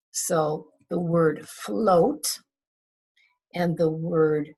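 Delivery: slow teacher modelling; slow phonics demo. Shown as a demonstration. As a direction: float drawn out slowly. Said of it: "O A".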